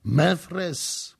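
high, halting echo; stunned repetition. A narrator's reading. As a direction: repeat it in disbelief. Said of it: "powtórzył książę".

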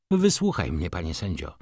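declaiming baroness. A narrator's reading. Baroness begins her plea to the judge, declaiming. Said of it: "zaczęła deklamować pani baronowa".

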